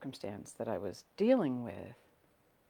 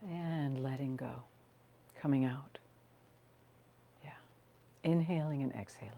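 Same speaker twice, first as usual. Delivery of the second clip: calm grounding guide with long pauses; unhurried phrases, leaving room to breathe; guided meditation. Real, not acted.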